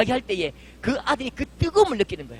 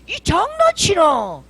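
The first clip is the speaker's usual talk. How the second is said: loud, higher, slowed scolding; angry retort; 7 semitones higher, 7 dB louder than usual. Retold or imitated. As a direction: snap at her in disbelief, drawn out. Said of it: "이렇게 막 화를 내려는데".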